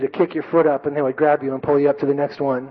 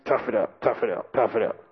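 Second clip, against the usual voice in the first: kendi kendine söylenme; 4 semitones lower, 6 dB quieter than usual. Retold or imitated. Muttered self-talk while enduring blister.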